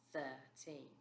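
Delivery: unvoiced, whispered thirteen. Shown as a demonstration. Teacher softly whispering the number after writing it. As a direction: breathe the word out softly. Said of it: "So number thirteen".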